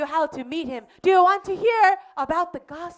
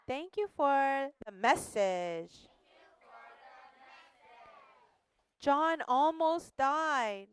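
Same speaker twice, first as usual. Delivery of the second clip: put-on children's prayer; slower than usual. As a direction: lead the children gently in prayer.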